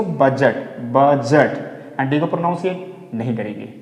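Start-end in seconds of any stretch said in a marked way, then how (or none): 0.0-1.6 बजट said as "bujet", no d; silent d. Shown as a demonstration. Teacher modelling budget for students, careful. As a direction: say बजट smoothly, d left out. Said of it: "क्या बोलेंगे इसको".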